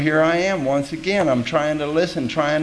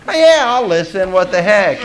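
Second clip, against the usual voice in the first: casual bluff; 5 semitones higher, 6 dB louder than usual. Retold or imitated. His bluffing reply retold.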